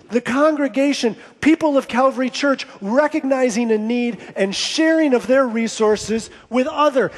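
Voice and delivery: emphatic, driving sermon delivery; impassioned preaching. Real, not acted. Preacher pointing the congregation to the Spirit at work, impassioned preaching. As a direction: preach it to the room with conviction.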